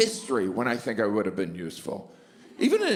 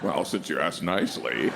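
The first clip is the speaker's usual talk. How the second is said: coy flattered; 10 semitones lower than usual. Pretend. Flattered customer.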